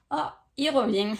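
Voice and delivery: light mock surprise, as if spotting someone coming back; excited exclamation. Reader voicing delight at someone returning, excited.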